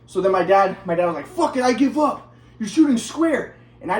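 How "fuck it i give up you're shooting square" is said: higher-pitched mock outburst; fed-up dad. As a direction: imitate a father throwing in the towel. Retold dad giving up in frustration.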